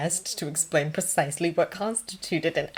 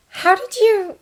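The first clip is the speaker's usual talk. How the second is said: high-pitched, unfinished question; hesitant opening; 5 dB louder, slower than usual. A narrator's reading. Nurse starts a delicate question to Thomas, hesitant. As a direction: begin the question, then break off. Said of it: "and then hesitated".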